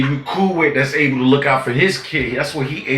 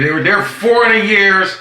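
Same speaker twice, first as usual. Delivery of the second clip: loud emphatic; 6 semitones higher, 4 dB louder than usual. Acted. Repeats line, then says it flatter.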